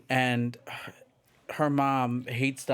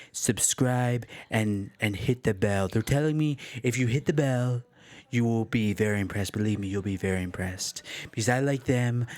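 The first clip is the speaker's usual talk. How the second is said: Donald Trump impression. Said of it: "I do a good Donald Trump impersonation".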